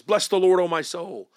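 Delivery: "Bless the Lord" hit loud, like all caps; double emphasis. Shown as a demonstration. Preacher showing a class the verse in all caps, emphatic. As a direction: recite it as if written in capitals. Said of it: "that double emphasis".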